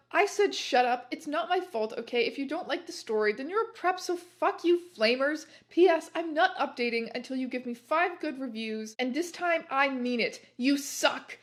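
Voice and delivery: petulant, mildly hammed-up rant. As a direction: scold the readers like a huffy author. Angry author's note to flamers.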